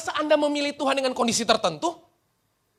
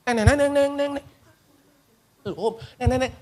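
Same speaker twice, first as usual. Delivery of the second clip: mock song intro; 2 semitones lower than usual. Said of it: "Itu kayak intro lagu".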